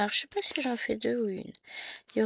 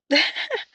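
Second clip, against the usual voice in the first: petit rire gêné; 8 semitones higher, 13 dB louder than usual. Real, not acted. Rit de sa voix cassée.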